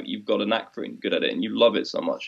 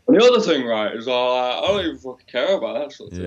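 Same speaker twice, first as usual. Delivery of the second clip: put-on Scottish accent. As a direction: try a rough Scottish accent. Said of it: "That's a weird Scottish accent".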